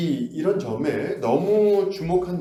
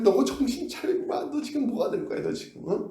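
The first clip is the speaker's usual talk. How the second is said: much higher mock yell at a foolish sibling; scolding sibling; 11 semitones higher than usual. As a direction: snap him out of it, high and sharp. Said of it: "왜 하지 않겠습니까?".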